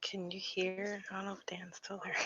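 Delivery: whisper, shaken by what you heard; frightened whisper. Real, not acted. Vlogger scared after app says husband's name, frightened whisper.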